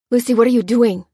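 called out. A narrator's reading. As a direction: call after her in alarm. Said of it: "called Lopez".

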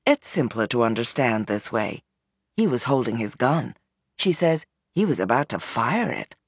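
calm and easy. Acted. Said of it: "speaks in a very calm and easy tone".

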